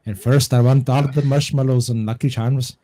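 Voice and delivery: lightly hammed-up Irish accent; mock Irish accent. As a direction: talk over the film in a joking Irish accent. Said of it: "his fucking accent as an Irish person".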